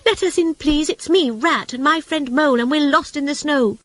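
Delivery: high, urgent plea; pleading rat. A narrator's reading. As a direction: beg to be let in, pitched high. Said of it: "cried the rat".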